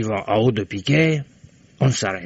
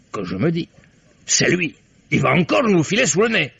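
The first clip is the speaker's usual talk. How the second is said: excited retelling; 4 semitones higher than usual. Acted. Excited retelling of spotting boat.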